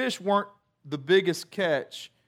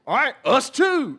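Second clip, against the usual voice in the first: eager agreement; 6 semitones higher, 5 dB louder than usual. Retold or imitated. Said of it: "they're like".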